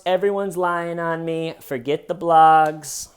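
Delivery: a hint of a whiny star begging fans; mock plea. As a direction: ham up a pleading celebrity. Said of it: "Sorry, folks".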